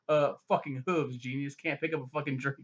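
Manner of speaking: mildly angry imitated grumble; aggravated. Horse failing to pick up a drink, mock aggravated. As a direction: act out an irritated horse lightly. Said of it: "just aggravated and just so angry".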